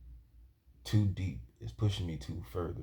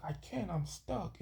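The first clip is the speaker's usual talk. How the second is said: panicked; 12 semitones higher, 6 dB quieter, slower than usual. Retold or imitated. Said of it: "And I'm like".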